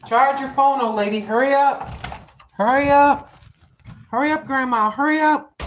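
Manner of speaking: Grandma hurrying herself, half-laughing alarm; urging herself on. Real, not acted. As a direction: rush yourself, battery's dying. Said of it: "urging herself, low battery".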